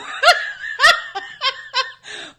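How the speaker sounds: high, loud burst of laughter; real laugh. Real, not acted. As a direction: crack up loudly. Laughs at friendship ending.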